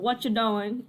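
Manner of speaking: trying out an Australian accent; light Australian accent; Aussie accent attempt. Shown as a demonstration. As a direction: have a tentative go at sounding Aussie. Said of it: "I want him to sound Aussie".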